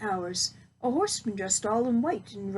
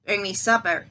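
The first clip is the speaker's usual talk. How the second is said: witch ordering; 2 semitones lower, 5 dB louder than usual. Acted. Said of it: "she ordered".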